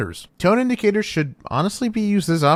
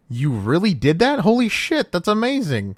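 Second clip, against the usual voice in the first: higher, thrilled disbelief; amazed excitement; 5 semitones higher than usual. Shown as a demonstration. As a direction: cheer them on in delight. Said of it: "As in".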